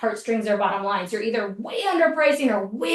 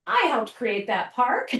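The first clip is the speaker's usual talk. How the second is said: proud friend; slower than usual. Retold or imitated. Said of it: "go like".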